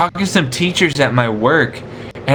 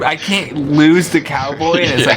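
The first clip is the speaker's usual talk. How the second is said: cowboy accent. Real, not acted. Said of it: "half this weird voice".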